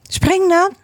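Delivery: high, urging call. A narrator's reading. Father eagle urging his young to jump, calling out. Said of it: "riep zijn vader".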